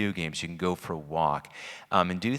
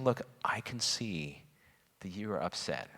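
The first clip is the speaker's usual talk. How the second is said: gentle whisper; 6 dB quieter than usual. Retold or imitated. Mother reassuring her upset daughter, in a gentle whisper. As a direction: whisper it gently so she feels safe.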